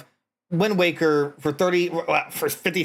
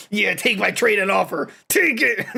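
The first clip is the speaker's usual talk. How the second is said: moaning employee; 2 semitones higher than usual. Pretend. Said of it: "all you hear is".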